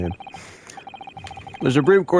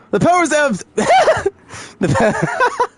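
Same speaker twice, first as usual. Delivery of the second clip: wrong high voice. Acted. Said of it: "I can't get the voices".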